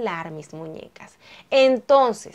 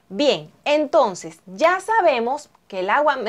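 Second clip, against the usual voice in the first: voice cracking. Real, not acted. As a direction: voice cracks mid-phrase. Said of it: "me salió un gallo".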